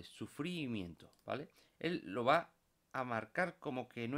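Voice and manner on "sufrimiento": "sufrimiento" with the first I stressed and drawn out; "sufrimiento" said as su-frííí-miento. Shown as a demonstration. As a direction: lean on the I in "sufrimiento". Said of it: "le pongo un acento en la I".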